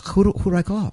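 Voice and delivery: high, frantic question; panicked, high-pitched asking; a touch of retold panic; freaking out. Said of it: "I'm freaking out".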